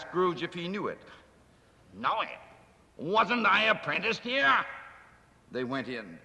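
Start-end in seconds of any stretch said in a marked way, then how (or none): 1.9-4.6 excited recognition. Acted. Scrooge recognizes his old workplace.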